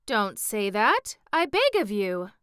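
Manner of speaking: tender-hearted protest, voice lifted; distressed cry. A narrator's reading. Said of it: "cried the Tin Woodman".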